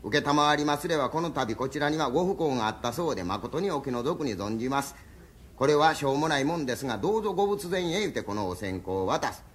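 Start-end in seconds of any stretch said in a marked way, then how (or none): 0.0-8.0 formal recital again. Shown as a demonstration. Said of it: "覚えなはれ。".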